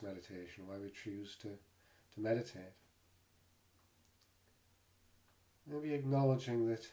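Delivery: calm, unhurried meditation guide with long pauses; guided meditation. Real, not acted. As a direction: gently guide listeners into the body, leaving space between phrases. Leads a body scan meditation.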